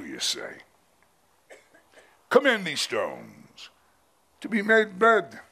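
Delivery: a hint of a contemptuous Satan coaxing a starving man; patronizing fallen angel. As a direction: talk down to him like a sneering devil. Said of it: "the patronizing tone of the fallen angel saying".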